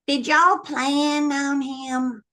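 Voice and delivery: slow, drawn-out sly question; cheeky question. Retold or imitated. Daughter slyly asking her mother if the baby was planned. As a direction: needle Mama gently.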